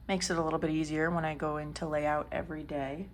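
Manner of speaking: talking between sips of coffee; words round a coffee slurp. Real, not acted. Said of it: "Sorry, I'm slurping my coffee".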